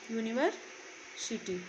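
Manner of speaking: यूनिवर्सिटी drawn out slowly, starting with a clear y sound; slow model word. Shown as a demonstration. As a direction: stretch यूनिवर्सिटी out so the y is heard. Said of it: "पहला अक्षर आ रहा है अगर आप देखो तो य". (यूनिवर्सिटी धीरे-धीरे, शुरू में साफ़ 'य')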